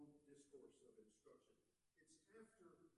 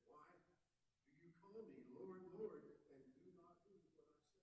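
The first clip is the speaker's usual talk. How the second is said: emphatic repeat; 4 semitones higher, 6 dB louder than usual. Acted. Repeats verse louder, slower.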